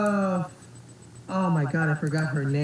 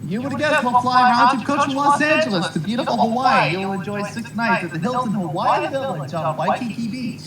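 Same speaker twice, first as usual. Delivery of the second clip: booming prize announcer; 2 semitones higher than usual. Acted. Prize description read.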